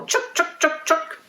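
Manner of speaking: high, quick little chuks; squirrel chatter. Shown as a demonstration. Teacher showing kids the squirrel sound, high chatter. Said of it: "let's make the sound of a squirrel".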